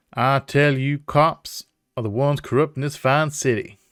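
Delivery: indignant southern professor; southern accent. Acted. Professor railing against the cops, southern accent. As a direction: declaim it in a southern drawl. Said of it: "I don't know why it's a southern accent".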